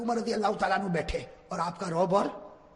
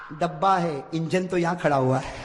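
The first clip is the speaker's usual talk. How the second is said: calm reply; 4 semitones lower than usual. Acted. Prophet's calm answer.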